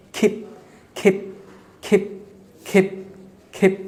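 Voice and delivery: "ক্ষেপ" short, with a puffed kh; aspirated k. Shown as a demonstration. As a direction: say keep as "ক্ষেপ", starting on খ. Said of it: "খয়ের মতো উচ্চারণ হবে খা". ("ক্ষেপ" শুরুতে খ উচ্চারণ)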